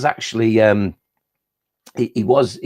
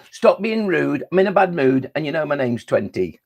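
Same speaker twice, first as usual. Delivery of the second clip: grumpy retort; 3 semitones higher than usual. Acted.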